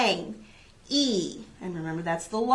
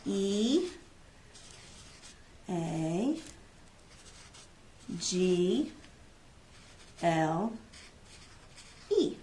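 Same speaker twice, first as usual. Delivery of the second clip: spelling slowly; 3 semitones lower, 10 dB quieter, much slower than usual. Shown as a demonstration. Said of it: "Let's see if I can write eagle sideways".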